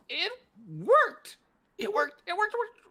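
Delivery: high, loud cries of triumph; giddy inventor shrieking with joy; overjoyed. Acted. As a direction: shout it like your life's work just came alive. Inventor's creation comes alive.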